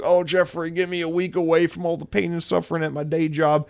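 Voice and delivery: put-on Southern accent, pleading; Satya Nadella. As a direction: play a put-upon Southern man begging a friend. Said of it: "This is how he talks".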